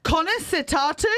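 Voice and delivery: butchered Irish. Shown as a demonstration. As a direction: have a go at an Irish accent and mangle it. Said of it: "That was her butchered Irish".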